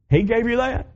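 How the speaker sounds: high-pitched disbelieving gasp of a question; a bank officer who can't believe her eyes; surprised question. Retold or imitated. Retold bank officer asking the preacher, high and astonished.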